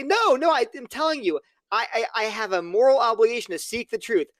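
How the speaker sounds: high, imploring objection in a played-out argument; indignant protest. Acted objector protesting in imagined dialogue.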